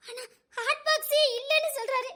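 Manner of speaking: crying. Acted. Wife crying about missing box.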